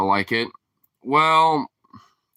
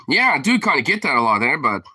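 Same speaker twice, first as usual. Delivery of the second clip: put-on Canadian accent; 3 semitones higher, 3 dB louder than usual. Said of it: "that's kinda Canadian".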